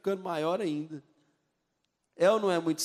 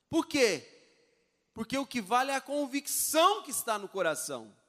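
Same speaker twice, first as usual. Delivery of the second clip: ordinary talk, nothing marked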